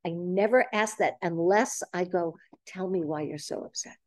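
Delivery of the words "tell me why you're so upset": soft, gentle invitation to explain; sincere curiosity. Shown as a demonstration. Listener who wants to know why someone's upset, sincere and quiet. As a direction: ask softly, wanting to understand. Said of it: "I really wanna understand".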